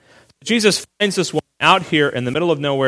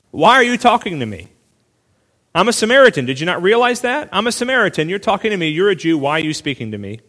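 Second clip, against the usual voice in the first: incredulous challenge; 3 semitones higher than usual. Retold or imitated. Samaritan woman challenges Jesus at the well, incredulous. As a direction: pitch lifted, pushing back in disbelief. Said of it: "she argues with Jesus".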